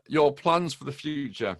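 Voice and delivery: slow, spaced-out question with pauses; slow down for a non-native listener. Real, not acted. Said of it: "I'll talk a bit slower".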